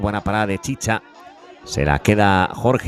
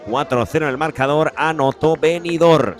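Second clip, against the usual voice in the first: excited commentary; 5 semitones higher than usual. Real, not acted. After goal, still elated.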